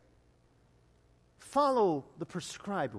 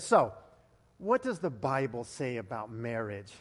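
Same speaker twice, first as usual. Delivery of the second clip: challenging friend; 8 semitones lower than usual. Retold or imitated. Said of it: "leans back in her chair and says".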